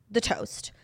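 breathy aside for a sly segue; whisper. Acted. Whispering a cheeky segue to her co-host. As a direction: whisper the words The toast.

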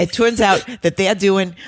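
put-on Wendy Williams's accent. Retrying the gossip line in a badly imitated accent. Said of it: "that's me doing her accent".

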